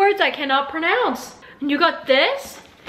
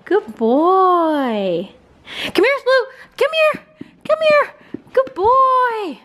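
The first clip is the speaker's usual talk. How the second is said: high call to dog; 5 semitones higher, much slower than usual. Real, not acted. Owner calling her corgi back, high sing-song praise. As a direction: call the puppy over, bright and high.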